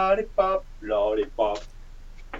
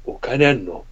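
creepy voice; 5 semitones higher than usual. Acted. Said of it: "怖、怖".

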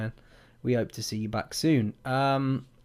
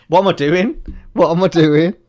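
startled exclaim; 6 semitones higher, 11 dB louder than usual. Real, not acted. Shocked at own action.

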